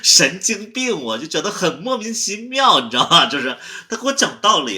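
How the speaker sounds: high, loud, incredulous rant; worked-up, high-pitched complaint; exasperated venting. Acted. Agitated venting about someone lecturing.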